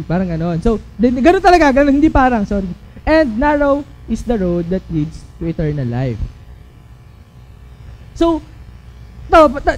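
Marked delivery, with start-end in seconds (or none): 3.1-6.2 low, soft, measured verse; scripture reading. Acted. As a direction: read the promise gently. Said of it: "So sabi". (mahinahong pagbasa ng talata)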